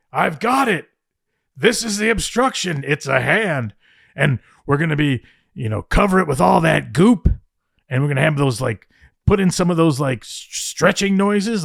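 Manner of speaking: high-pitched, eager pitch of a new idea; imitating a buzzing, overexcited boss; excited retelling. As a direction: pitch the find like a thrilled kid. Vince running back with hand.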